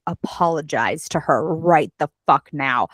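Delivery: low growled command; Henry Cavill growl. Retold or imitated. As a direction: growl it like a brooding hero. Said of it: "This is how I imagine ... Henry Cavill ... growling".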